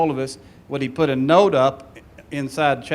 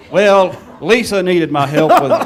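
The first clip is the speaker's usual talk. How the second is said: laughing through a teammate's lame excuse; mocking quote laughed through; 3 semitones higher, 7 dB louder than usual. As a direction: giggle out the silly alibi, loud.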